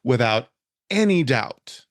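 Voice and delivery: slow, emphatic declaration with deliberate pauses; utterly convinced, drawn out for weight; passionate conviction. Real, not acted. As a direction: say it with total certainty, weighing each phrase. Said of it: "I'm saying this very passionately".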